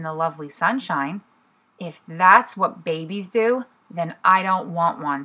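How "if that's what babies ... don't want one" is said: slow, sad little thought; a touch of gloom, slowly. Acted. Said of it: "he thought sadly".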